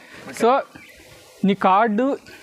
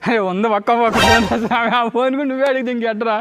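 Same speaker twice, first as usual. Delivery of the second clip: excited protest; 4 semitones higher, 3 dB louder than usual. Real, not acted. Joking protest about the phone bet.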